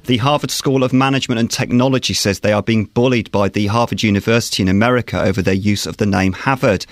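crisp radio newsreader delivery; news read. Acted. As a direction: read the bulletin, clear and measured. Reads the news bulletin.

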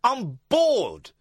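imitating an ex-prime minister complaining; mock politician. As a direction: imitate him moaning. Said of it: "Imagine that".

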